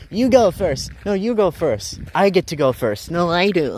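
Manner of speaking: squabble like two stubborn drivers; mock argument. Drivers arguing over the narrow road, in high mock voices.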